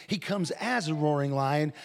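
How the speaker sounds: emphasis on the word AS; stress on AS. Shown as a demonstration. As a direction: lean on "as" to mark the distinction. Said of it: "but he's not a roaring lion".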